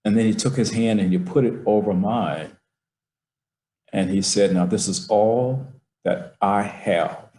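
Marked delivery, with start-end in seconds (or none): 4.5-7.3 slow, hushed weight on every word; tender father. Retold or imitated. Father giving his son his only money, slow and tender. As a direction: hand over everything he owns, slowly.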